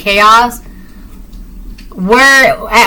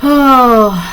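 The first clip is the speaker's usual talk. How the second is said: long sigh; 2 semitones higher than usual. Real, not acted. Contented sigh during a pause.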